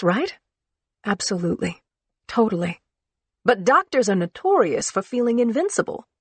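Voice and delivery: scared, joking bitterly; frightened friend. Acted. Claire voiced, frightened friend.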